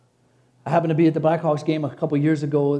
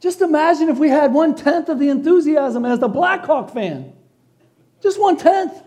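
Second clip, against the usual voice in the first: higher and louder, pleading exclamation; preaching cry; 9 semitones higher, 5 dB louder than usual. Acted. Preacher urging the church, high and loud. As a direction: push it up like a preacher's plea.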